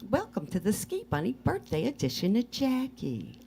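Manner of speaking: high Southern talk show host voice; Southern accent. Pretend. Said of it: "a Southern accent".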